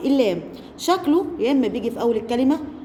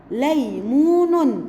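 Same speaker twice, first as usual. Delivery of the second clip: ليمون still slow but joined; ليمون said whole; slow reading; much slower than usual. Shown as a demonstration. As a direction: read ليمون slowly as one word. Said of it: "تعالوا نشوف ده في كلمات".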